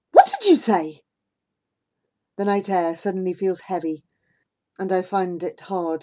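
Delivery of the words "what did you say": shocked disbelief. Acted. Shocked at friend's news.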